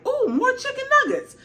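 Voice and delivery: high, delighted dragon voice; the dragon eyeing snacks; hammed-up hungry dragon; greedy dragon. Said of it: "Vermithor was like".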